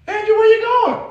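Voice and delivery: lightly voiced caller; teasing call after a leaving man; mock calling after. Pastor teasing Andrew for running off, mock call. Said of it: "You run to aisle nine".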